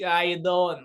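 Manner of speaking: light Italian American mobster greeting; throwaway Italian American impression; Italian American accent. Shown as a demonstration. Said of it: "I just did a typical, like, you know, like, It-, Italian American".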